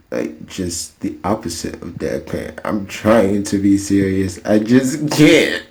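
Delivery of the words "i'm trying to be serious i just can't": failing to be serious. Real, not acted. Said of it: "without laughing".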